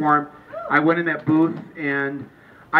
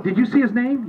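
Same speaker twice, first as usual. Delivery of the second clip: higher, mildly incredulous question; disbelieving question; 5 semitones higher than usual. Acted. Voter questioned about the ballot, mildly incredulous. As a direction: ask it pitched up, in mock disbelief. Acted disbelieving exchange with himself.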